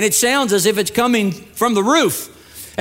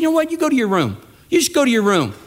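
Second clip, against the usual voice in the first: angry dad; 5 semitones higher, faster than usual. Retold or imitated. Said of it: "the dad got really angry at that".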